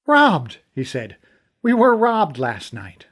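alarmed outburst. Acted. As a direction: blurt out the bad news. Fergal realizes theft.

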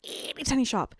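tiny squeaky voice. Real, not acted. Describing a very small shop, high tiny voice. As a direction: shrink the voice up high for tininess.

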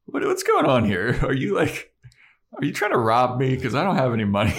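high, loud mock alarm; hammed-up bewildered protest; alarmed William. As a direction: imitate a panicky victim, voice jumping up. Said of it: "That he's like".

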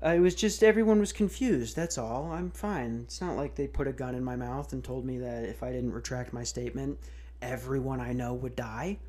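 understated frightened hostage voice; mock forced interview. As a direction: mumble it like someone under threat. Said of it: "interviews with the Chinese media saying".

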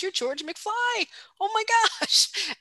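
voicing Marty, starstruck and amazed; stunned disbelief. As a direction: gasp it out like you can't believe your eyes. Marty stunned seeing young George.

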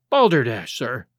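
mildly indignant outburst; angry exclamation. A narrator's reading. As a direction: snap it out like a scornful old doctor. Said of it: "he exclaimed angrily".

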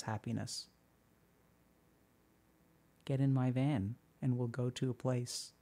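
softly sinister too-happy pitch; creepy blissful stranger. Shown as a demonstration. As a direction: lure them in with eerie calm happiness. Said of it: "I can't do a straight face".

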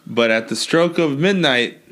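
God as a lightly voiced New Yorker; a hint of New York deal-maker; New York accent. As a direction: lay down terms in a mild New York accent. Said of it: "he'd probably be a New Yorker".

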